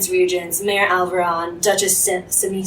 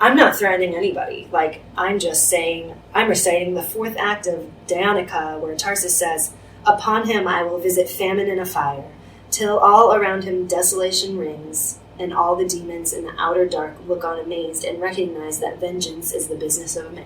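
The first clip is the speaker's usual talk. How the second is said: usual speaking voice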